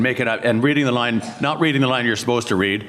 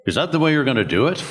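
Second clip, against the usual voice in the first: teasing incredulity, pitched up; mock disbelief; 5 semitones higher, faster than usual. Norm needling a nervous Gambit actor in the studio, mock disbelief. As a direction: put a nervous colleague on the spot.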